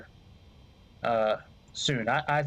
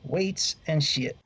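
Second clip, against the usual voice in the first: slow drawn-out repeat; 3 semitones higher, slower than usual. Pretend. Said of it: "That's what we call it".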